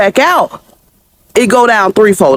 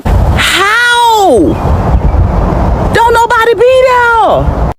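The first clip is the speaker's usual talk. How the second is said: much higher, stretched outraged disbelief; incredulous; 11 semitones higher, much slower than usual. Real, not acted. Reacting to a six hundred dollar bill, incredulous and high. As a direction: hit How way up, stunned.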